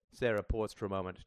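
usual speaking voice

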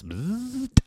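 high, quiet mechanical buzz; imitated buzz. A narrator's reading. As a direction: buzz like a switch. Imitated sound of face switching.

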